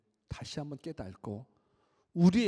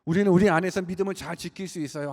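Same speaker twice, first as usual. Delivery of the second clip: raised, loud sermon voice; impassioned preaching; 7 semitones higher, 10 dB louder than usual. Acted. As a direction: press the point home to the congregation.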